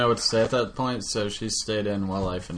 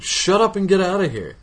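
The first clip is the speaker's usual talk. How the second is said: mock annoyed snap; 8 semitones higher, 5 dB louder than usual. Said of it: "I'm like".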